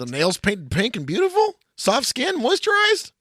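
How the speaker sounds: rising to a high, put-on dainty voice; mock dainty voice. Mocking girly hand description.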